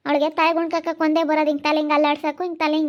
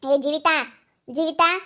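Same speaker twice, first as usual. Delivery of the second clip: raised voice, calling someone over. Acted. Mother-in-law summoning Jeevita, calling out. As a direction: call out for her to come. Calls daughter-in-law from another room.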